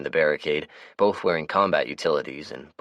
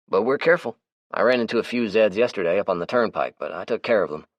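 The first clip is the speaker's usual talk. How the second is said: higher, brighter character voice; Melvin's voice; 5 semitones higher, 4 dB louder than usual. Acted. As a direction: play the chatty, easygoing Melvin. Melvin voices his lines.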